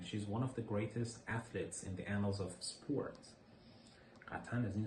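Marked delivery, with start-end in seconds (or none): 0.0-3.3 slow model sentence. Shown as a demonstration. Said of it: "The annals of something".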